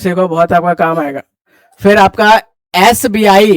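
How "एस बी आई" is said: एस बी आई spelled out slowly, opening on an "e" vowel; letter-name pronunciation. Shown as a demonstration. Teacher showing students why it takes "an", slow letter-name pronunciation. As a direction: draw out the first letter of एस बी आई. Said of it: "एस बी आई में ए से पढ़ते हैं".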